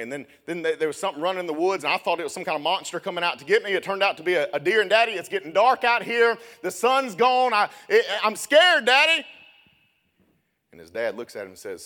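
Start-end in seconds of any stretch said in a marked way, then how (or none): 0.0-9.2 put-on builds from plain to a much higher, louder frightened child's cry; a little boy getting more and more panicked, calling for his daddy; scared boy.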